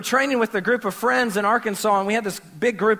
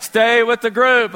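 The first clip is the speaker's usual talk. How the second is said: loud, slow movie-quote call; Nemo; 2 semitones higher, 7 dB louder, slower than usual. Retold or imitated. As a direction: call it out like a cartoon warning. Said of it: "it's like Nemo".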